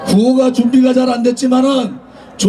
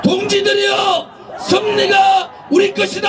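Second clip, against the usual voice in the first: roaring rallying speech; 5 semitones higher than usual. Real, not acted. Closing rally call and response.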